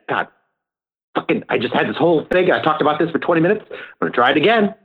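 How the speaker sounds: worked-up comedian complaining, rapid and clipped at the ends; quick, exasperated rant, lightly impersonated; Bill Burr. Acted. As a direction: do a fast, fed-up comic griping about starting over. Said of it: "That was my Bill Burr impression".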